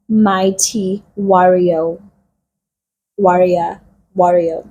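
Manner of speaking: slow, drawn-out, dwelling on warrior; slow proclamation. Retold or imitated. Angel hailing Gideon, drawn out slowly. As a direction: call him warrior slowly, savouring it.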